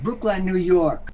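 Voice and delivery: slow, put-on English dialect; punchline in an English accent. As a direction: draw it out in a mock English accent. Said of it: "if I can do an English dialect".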